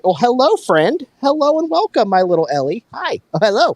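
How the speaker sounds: high sing-song greeting to the dog; cooing to a pet. Real, not acted.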